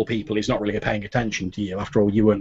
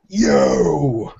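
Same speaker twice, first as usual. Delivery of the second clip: accusing call; 3 semitones higher, 4 dB louder than usual. Retold or imitated. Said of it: "he's basically gone".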